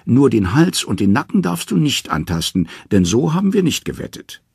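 high-voiced Loki calling out. A narrator's reading. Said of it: "ruft Loki".

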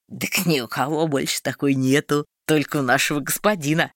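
a hint of a simple wagon driver; lightly voiced peasant.

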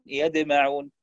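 يجمعون said as يدمعون, jim close to d; jim near dal. Shown as a demonstration. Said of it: "تصبح بقريبة من الدال".

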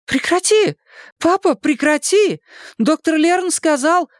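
high-pitched urgent objection; urgent protest. A narrator's reading. Daughter tries to stop her father searching, urgent protest. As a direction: plead with him to stop.

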